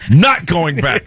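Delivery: slow, high, comically adamant; emphatic refusal. Retold or imitated. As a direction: stretch out each word of the refusal. Repeats refusal for laughs.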